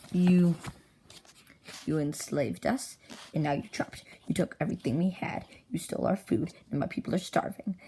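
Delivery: lightly acted dramatic denunciation; accusing captive's speech. Freed victim confronts the trapped enslavers, dramatic accusation. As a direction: open on a loud, held first word, then accuse gravely.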